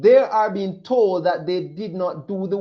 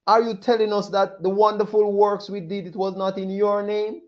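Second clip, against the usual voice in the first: pleading people; 2 semitones higher than usual. Acted. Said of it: "holding their hands on their heads".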